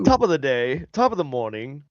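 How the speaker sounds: attempted British that lands on Irish; mock Irish accent. Joining the British joke, slipping into Irish accent. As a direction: lilt it like a stage Irishman. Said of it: "No, that's Irish".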